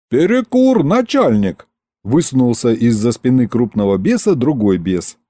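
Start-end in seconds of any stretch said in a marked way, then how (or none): 0.1-1.7 high-pitched imp calling out; cheeky demon. A narrator's reading. Second demon excuses the idle crew to the boss, piping up.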